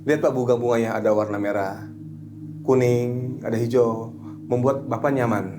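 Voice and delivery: measured guiding voice, pausing between images; hypnotherapy suggestion. Shown as a demonstration. Hypnotherapist guides client among coloured flowers, measured suggestion. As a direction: gently list what they are seeing. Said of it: "saya bisa menuntun".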